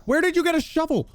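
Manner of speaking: very high amazed squeak; incredulous squeak. Real, not acted. Gamer squeaks at a baby zombie with a shovel. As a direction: squeak in disbelief.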